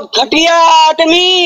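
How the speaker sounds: contemptuous, with slowly stretched syllables; drawn-out insult. Real, not acted. Debater insulting his opponent mid-argument, slow contempt.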